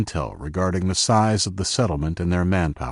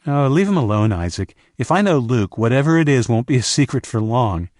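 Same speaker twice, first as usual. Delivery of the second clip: laughing; 5 semitones higher, 3 dB louder than usual. A narrator's reading. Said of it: "said Indigo with a laugh".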